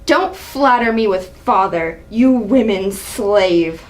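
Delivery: low, menacing threat; cold anger. Acted. Father forbidding his son's marriage, menacing. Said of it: "Seeing the angry side of Allie".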